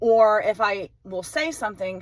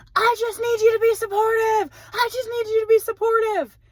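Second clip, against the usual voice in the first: very high, acted-out child's scream; 13 semitones higher, 3 dB louder than usual. Parent retelling an upset ten-year-old daughter screaming at them, imitating a child screaming. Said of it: "and she's screaming".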